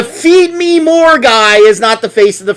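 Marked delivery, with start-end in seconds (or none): 0.0-1.2 mock demand. Mocking the running back.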